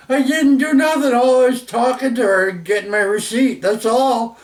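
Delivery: very high, indignant retold denial; acted-out squeal of innocence; defensive protest. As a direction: plead innocence to dad, voice shooting way up. Protesting innocence to his dad.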